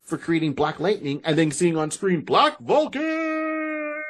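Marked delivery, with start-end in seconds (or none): 2.2-4.0 dramatic drawn-out name. Shown as a demonstration. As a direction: stretch the name out big and high. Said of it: "I wanna say his name the whole time like that".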